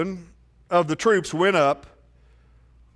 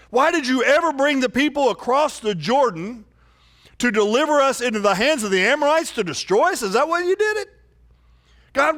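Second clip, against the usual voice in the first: Joshua's anguished prayer, pitched higher; pleading Joshua; 5 semitones higher than usual. Acted. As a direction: plead with God in distress. Joshua cries out to God.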